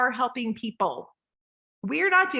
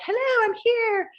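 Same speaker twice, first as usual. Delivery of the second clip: high, loud showy hello; mock loud greeting; 4 dB louder than usual. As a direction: announce yourself brightly and loudly. Loud attention-seeking entrance.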